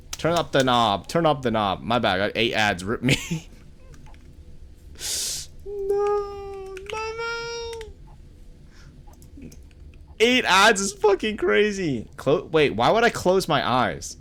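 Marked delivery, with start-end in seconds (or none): 5.6-12.1 squeaky falsetto. Pretend. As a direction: squeal it in a silly cartoon falsetto. Reacting to eight ads.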